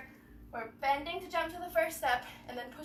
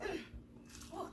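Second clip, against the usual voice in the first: throat clearing; 4 semitones higher, 9 dB quieter than usual. Real, not acted. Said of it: "got a little something stuck in my throat".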